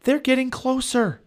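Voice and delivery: loud, high warning call; urgent high-pitched distant cry; calling from far away. A narrator's reading. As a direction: shout an alarm as if from a distance. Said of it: "Annie sounded far away".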